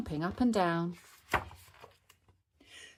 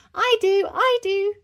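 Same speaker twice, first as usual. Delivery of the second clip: put-on high, loud, eager children; very high excited shouts; cheering; 9 dB louder than usual. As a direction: cheer it out, bursting to go first. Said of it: "cheered Peppa and George".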